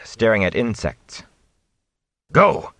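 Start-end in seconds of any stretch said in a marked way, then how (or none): 2.3-2.7 much higher, loud urgent shout; loud high urgent command. Acted. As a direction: bark the order to flee. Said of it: "Lan shouted".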